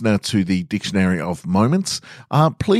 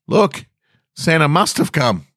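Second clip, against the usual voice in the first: dad yelling; 10 semitones higher than usual. Retold or imitated. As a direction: call out like a thrilled dad. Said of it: "Dad yelled from the window".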